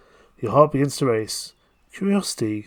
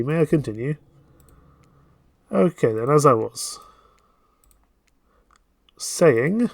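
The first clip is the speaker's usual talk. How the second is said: normal talking voice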